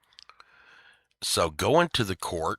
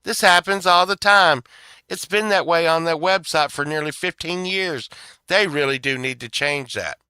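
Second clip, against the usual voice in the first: much higher and louder, a mocking laugh at the start; dismissive clerk chuckling it off; 9 semitones higher, 11 dB louder than usual. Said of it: "And they're like".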